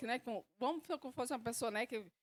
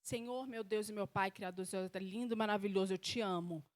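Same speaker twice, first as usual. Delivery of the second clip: low, monotone rote praise; false pious prayer; 4 semitones lower, 4 dB quieter than usual. Acted. Angry believer starting to pray, feigned low devotion. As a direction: recite sweet praise without meaning it. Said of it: "bravo com Deus, aí vai orar".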